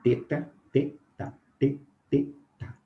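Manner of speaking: teta said slowly with a hard t; slow plain t. Shown as a demonstration. Teacher modelling the plain T in teta. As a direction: spell out teta with a clean t. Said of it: "Exemplo, o T".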